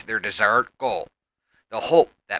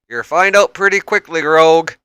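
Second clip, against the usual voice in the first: loud, higher challenge; louder, higher taunting call; 5 semitones higher, 7 dB louder than usual. A narrator's reading. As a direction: call it across the fight. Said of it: "Cannonball calls out".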